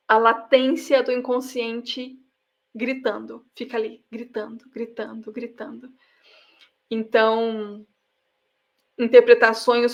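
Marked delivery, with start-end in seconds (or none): 2.7-5.9 soft, dropping further with each repeat; fading repetition. Shown as a demonstration. Speaker evoking the unconscious that keeps calling out, fading repetition. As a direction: let the repeated word die away quietly.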